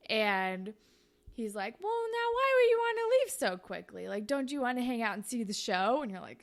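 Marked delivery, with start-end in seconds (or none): 1.8-6.0 a hint of a cocky guy luring her to stay; flirty Jay.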